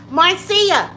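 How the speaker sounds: high, loud call of a name; excited calling out. Real, not acted.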